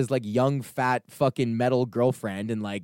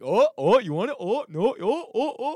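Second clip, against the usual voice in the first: mock taunting guard; 10 semitones higher than usual. Security guard taunting crowd with wristband.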